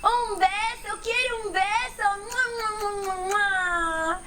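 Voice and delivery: high, eager calls for a kiss; little elephant shouting for kisses; excited shout. Acted. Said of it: "Chiquitín grita".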